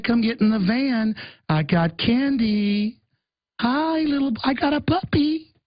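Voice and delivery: coaxing stranger. Pretend. Government stranger luring child with candy, lightly sugary. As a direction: dangle candy to lure the kid.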